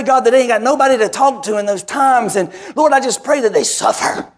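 rising, fervent prayer cadence; mock prayer. Pastor acting out the prayer he would pray over them, fervent. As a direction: pray it like a preacher building up. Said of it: "that prayer would go".

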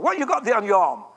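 lightly voiced blunt Yorkshire plumber; a hint of Wigglesworth's northern English bark; mild impression of an old English preacher; Wigglesworth's way of speaking. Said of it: "That's how he spoke".

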